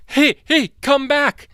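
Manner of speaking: high loud call after fleeing prey; cartoon T-Rex calling. T-Rex calls after the running dinosaur, high loud yell. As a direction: yell after them like a goofy monster.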